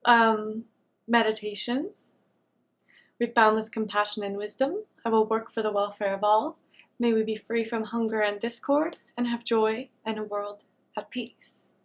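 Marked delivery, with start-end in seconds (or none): 3.2-4.8 softly recited opening aspiration; recited dedication. Shown as a demonstration. Meditator saying a dedication to herself, softly recited. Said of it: "this is what I say to myself". 5.0-11.7 soft recitation, sinking at the end; recited dedication. Shown as a demonstration. Meditator saying a dedication to herself, softly recited. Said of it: "this is what I say to myself".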